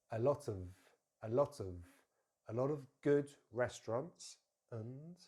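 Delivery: "lot of" joined as "lot-uhv"; weak forms. Shown as a demonstration. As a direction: stress "lot", weaken "of". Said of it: "change that for the schwa".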